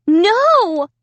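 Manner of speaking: high, loud frightened cry; choked-out no. A narrator's reading. Amy refusing the dummy, loud and scared. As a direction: force it out in terror. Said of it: "I finally managed to choke out".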